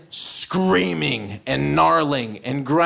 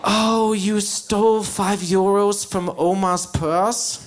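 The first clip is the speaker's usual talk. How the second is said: mock scolding parent. Bavarian parent threatening a thieving child, mock stern. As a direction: menace a child with theatrical deliberateness. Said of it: "parents in that area like to use these horrifying monsters".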